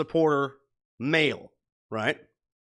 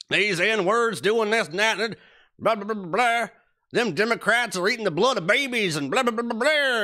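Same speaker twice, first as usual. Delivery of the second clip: redneck impression; 5 semitones higher than usual. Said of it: "even an impression".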